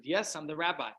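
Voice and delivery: mock thick Afrikaans accent; acento afrikáans. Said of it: "A thick Afrikaans accent".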